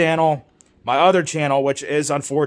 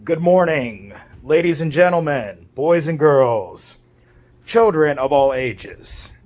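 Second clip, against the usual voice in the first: slow ringmaster greeting; grand entrance announcement; slower than usual. Acted. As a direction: draw it out like a circus ringmaster. Ringmaster-style channel greeting.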